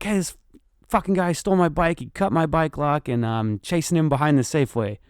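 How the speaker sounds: high, urgent retold phone report; huffing and puffing. Caller phones the police while chasing a thief, huffing. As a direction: imitate calling in mid-chase. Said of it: "I'm all huffing and puffing and running".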